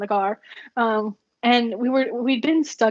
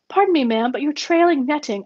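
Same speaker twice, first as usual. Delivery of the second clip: a hint of a polite British accent, slightly higher; lightly imitating a polite English gentleman; 5 semitones higher than usual. Englishman warns driver about netting, lightly British accent. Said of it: "the most English British that you can muster".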